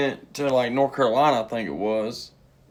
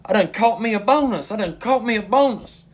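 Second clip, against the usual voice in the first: high whoop, then giddy higher-pitched boasting; hammed-up high-pitched cheer; mock cheering; 9 semitones higher, 5 dB louder than usual. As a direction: imitate a woman celebrating a slot win. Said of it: "she starts cheering".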